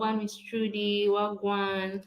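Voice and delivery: Jamaican accent. Shown as a demonstration. Partner greets Miss Trudy, missing Jamaican speech, Jamaican accent. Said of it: "speaking like Jamaicans".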